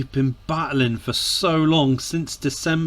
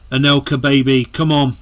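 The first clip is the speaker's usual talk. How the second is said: louder, eager urging of a player; 5 dB louder, faster than usual. Real, not acted. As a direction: egg him on. Urging a sub on.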